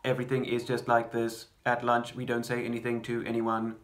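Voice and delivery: monotone, no inflection or rhythm; lightly robotic, evenly measured delivery. Shown as a demonstration. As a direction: recite it like a robot, every word even. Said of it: "try the monologue in a robotic voice".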